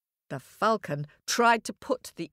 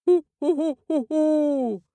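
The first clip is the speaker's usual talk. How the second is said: high owl hoots; high hooting owl call; 8 semitones higher, 4 dB louder than usual. A narrator's reading. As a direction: hoot it out like a wise old owl. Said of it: "said Owl".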